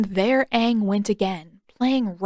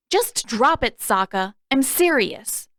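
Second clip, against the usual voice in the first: angry warning; 3 semitones higher than usual. Acted. Katara angrily warning Sokka.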